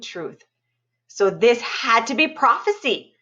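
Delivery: lively read-aloud narration with spooky dips; storytelling voice. A narrator's reading. Librarian reading a scary story to students, animated storytelling. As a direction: tell it like a campfire tale to kids.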